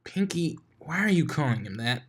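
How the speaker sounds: raspy voice with mouth full; raspy mouthful voice. Acted. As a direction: talk raspy through a mouthful. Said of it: "asked a raspy voice that sounded like a mouthful of food".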